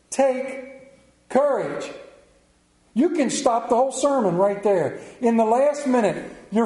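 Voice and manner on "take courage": slow reassuring words. Acted. Jesus reassures frightened disciples.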